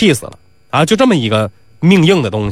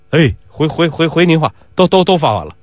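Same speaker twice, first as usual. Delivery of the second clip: stammering servant. Acted. Stammering servant reports to master.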